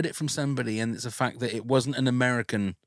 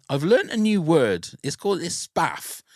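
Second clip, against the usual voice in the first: imitating Lisa; 5 semitones higher, 3 dB louder than usual. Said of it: "Lisa just kept saying".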